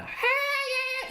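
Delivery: very high squealed "high". Shown as a demonstration. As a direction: shoot up into a squeal. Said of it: "the real high register one".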